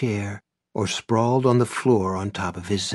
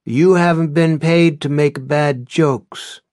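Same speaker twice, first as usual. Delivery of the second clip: stern; 6 semitones higher, 8 dB louder than usual. A narrator's reading. Z-Boy scolds hired contact.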